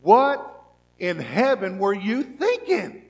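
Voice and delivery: loud, rising cry of exasperation, slow at the end; preacher voicing a frustrated believer's loud cry; shouting at God. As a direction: shout it up to heaven in disbelief. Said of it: "we shout".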